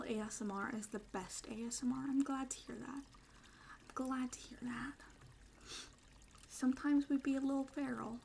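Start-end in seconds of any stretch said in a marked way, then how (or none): 3.0-4.9 slow soft whisper. Shown as a demonstration. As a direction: breathe it out slowly. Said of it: "repeated line, whispered slow take".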